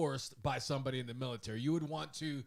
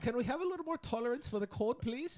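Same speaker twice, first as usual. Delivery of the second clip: unconvincing put-on Swedish accent, pitched very high; 10 semitones higher than usual. Retelling what a Swedish seaman said when he came in: unconvincing Swedish accent. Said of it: "not doing a very convincing Swedish accent".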